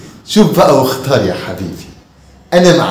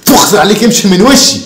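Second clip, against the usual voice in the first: mildly raised, scolding voice; angry telling-off; 3 semitones higher than usual. Acted. Father scolding son over cookies, mildly angry shouting. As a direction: send him away crossly. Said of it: "خلاص، خلاص، ما تزعقش يا عم".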